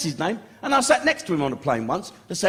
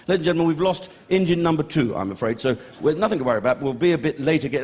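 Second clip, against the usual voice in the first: pilot announcement; 4 semitones lower than usual. Retold or imitated. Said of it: "the captain come on".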